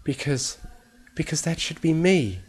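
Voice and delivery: high, hurt, halting accusation; high-pitched wounded protest; accusing. A narrator's reading. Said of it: "pointed an accusory hoof at him".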